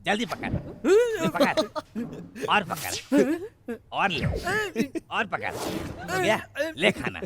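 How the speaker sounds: high-pitched, heated outburst; exasperated. Acted. Cook hurls food at the nagging man, exasperated. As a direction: thrust each order out in exasperation.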